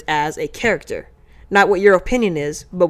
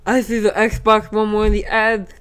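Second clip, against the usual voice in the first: put-on Jamaican accent. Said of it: "Are you, like, Jamaican now?".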